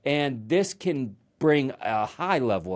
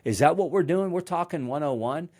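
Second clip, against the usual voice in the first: higher-pitched, lightly scornful questioning; condescending mock disbelief; 6 semitones higher than usual. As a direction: imitate a mentor belittling a problem. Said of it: "Very condescending".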